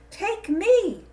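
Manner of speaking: high, loud, eerie cry; calling gourd. A narrator's reading. Evil gourd calls to Chinye, high eerie cry. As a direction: lure the girl from inside the gourd.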